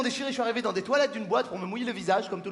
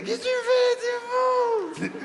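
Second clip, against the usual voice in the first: alarmed mother; 12 semitones higher than usual. Retold or imitated. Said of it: "Ma mère".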